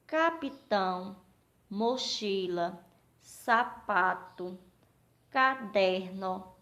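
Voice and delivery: slow three-beat words; syllable by syllable. Shown as a demonstration. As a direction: break each word into three measured syllables. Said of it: "Três sílabas cada palavra".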